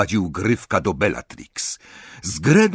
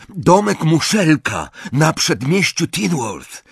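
slow, raised, clearly spaced; emphatic address; 6 semitones higher, 3 dB louder than usual. A narrator's reading. Ron gives the elf the address, slow and emphatic. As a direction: spell out the destination slowly and high.

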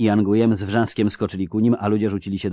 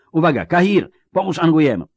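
high, loud orders; urgent shout; 9 semitones higher, 5 dB louder than usual. A narrator's reading. Geralt telling Kahir to help the wounded girl, shouting. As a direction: shout for help under fire. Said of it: "krzyknął".

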